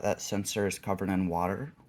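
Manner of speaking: lisping around a retainer; wearing a retainer. Real, not acted. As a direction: talk with retainers in. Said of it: "Sorry, I'm talking weird".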